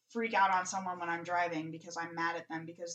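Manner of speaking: telling a road rage story through laughter; laughing through it. Real, not acted. Laughing while telling driving rage.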